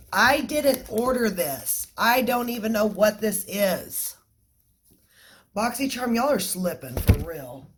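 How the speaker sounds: indignant. Real, not acted. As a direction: complain with disbelief. Complaining about a wrong item.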